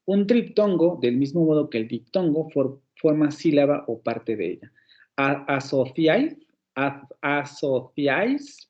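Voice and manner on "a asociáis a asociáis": asociáis with a lisped θ, slow and drawn out; Spain Spanish. Shown as a demonstration. Teacher demonstrating the Spain pronunciation of asociáis, slowly. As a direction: say asociáis with the Castilian th sound. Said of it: "así lo dicen en España".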